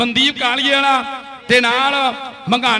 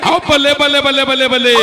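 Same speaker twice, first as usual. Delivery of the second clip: excited cheering; 3 dB louder than usual. Acted. Cheering the raid.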